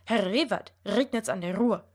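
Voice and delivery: "Herr Rewert, regnet's an der Ruhr" with trilled tongue R; rolled R. Shown as a demonstration. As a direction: roll the R in "Ruhr" on the tongue tip. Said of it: "if I'm going to try to roll my R".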